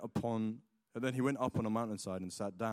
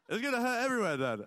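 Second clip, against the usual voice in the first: exasperated protest; 11 semitones higher, faster than usual. Retold or imitated. Son protesting to dad, high mock exasperation. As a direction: whine it at Dad, pitched way up.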